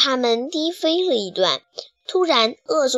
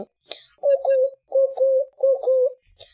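high hooting owl call. Acted. Narrator imitating a distant owl hooting. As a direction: hoot like a night owl.

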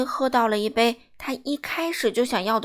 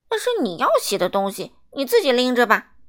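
dismissive; 5 dB louder, faster than usual. Acted. Miser brushes off old woman.

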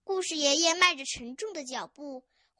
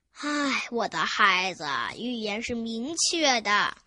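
slow, lower-pitched elder; sigh, then explain like a weary grandpa; sighing old man; 4 semitones lower than usual. Acted. Grandpa answers eager chick, sighing wearily.

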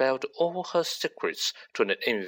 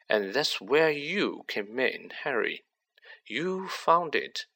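Riddle, cold and smug; 4 semitones higher than usual. Acted. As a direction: let a cold confidence creep in under a light voice. Riddle's voice in the story.

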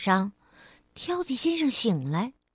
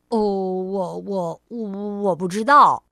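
dithering stammer; 3 semitones lower, 3 dB louder than usual. Acted. Clumsy cousin dithering about staying.

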